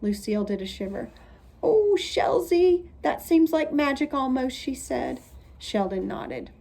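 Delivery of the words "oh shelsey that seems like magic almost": awed gasp. A narrator's reading. Lucille awed, shivering.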